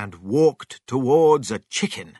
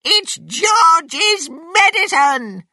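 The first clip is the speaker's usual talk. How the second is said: very high, loud, drawn-out yell; slow, screeching shout; shouting Grandma; 7 dB louder, slower than usual. A narrator's reading. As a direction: holler it down from the roof as Grandma. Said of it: "shouted Grandma".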